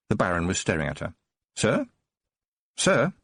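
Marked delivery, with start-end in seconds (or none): 1.5-3.1 higher, anxious repeated calling; urgent calling. Acted. Tiffany calls to the staring Baron, urgently rising. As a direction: try to rouse him, urgently.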